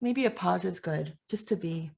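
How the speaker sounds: soft, gentle pause for breath; hushed, moved. Real, not acted. Host gives everyone a moment after tears, hushed and moved. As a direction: say it quietly, letting the emotion settle.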